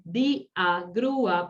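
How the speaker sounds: "día, grúa" split as DÍ-a, GRÚ-a; "día, grúa" with each hiatus broken into two syllables; syllables separated. Shown as a demonstration. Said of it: "porque se separa la sílaba".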